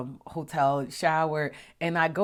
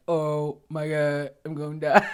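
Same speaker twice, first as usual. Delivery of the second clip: mock panic; 6 dB louder than usual. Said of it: "I was like".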